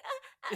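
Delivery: short comic breathy "uh"; weird noise. Retold or imitated. Podcaster shows how the show's character does the funny noise, weird noise. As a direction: imitate an odd little grunt. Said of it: "she's making this weird noise".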